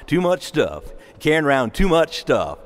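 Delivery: a light southern country twang on the song line; southern accent. Shown as a demonstration. Priest quoting a country song, light southern accent. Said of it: "You gotta, you gotta say it with a southern accent".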